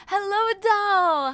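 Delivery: high, drawn-out sing-song hello; sing-song greeting. Real, not acted. Greeting a chatter by name in a high sing-song. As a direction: stretch the hello out up high and loud.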